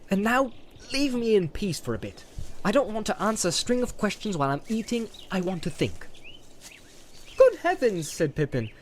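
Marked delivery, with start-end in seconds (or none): 0.1-6.1 sharp. Acted. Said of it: "said Frodo sharply". 7.4-8.1 much higher, louder astonished cry; amazed exclamation. Acted.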